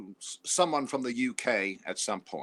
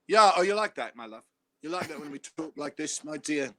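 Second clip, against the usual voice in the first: mock sexy British accent; 3 semitones higher than usual. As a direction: lay on the British charm, teasing. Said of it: "do you know where this dialect does not work?".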